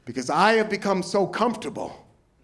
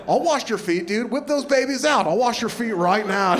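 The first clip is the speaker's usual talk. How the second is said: surfer-bro Jesus; 4 semitones higher than usual. Retold or imitated. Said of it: "sounded like that".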